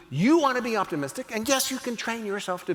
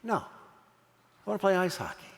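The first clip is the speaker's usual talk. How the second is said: put-on slow, softer, insistent boy voice; stubborn kid; 4 dB quieter, slower than usual. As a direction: drag it out like a kid refusing to budge. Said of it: "you know what he said?".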